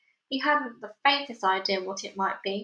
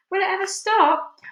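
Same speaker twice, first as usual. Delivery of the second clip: high, loud excited shout; 9 semitones higher, 6 dB louder than usual. Acted. Aunt dancing round the tree, high loud shout. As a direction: shout it while dancing about. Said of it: "Aunt Sponge shouted".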